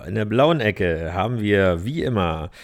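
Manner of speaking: booming ring announcer, stretched and rising; brash fight promoter hype. Acted. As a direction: call him into the ring like a title fight. Boxing corner introduction of Patrick.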